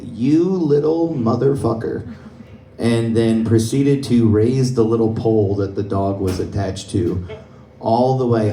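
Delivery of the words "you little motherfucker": slow, higher mock snarl at the dog; muttered curse. Groomer cursing the biting dog, slow mock snarl. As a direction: drag out the curse, lightly acted. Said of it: "She just said".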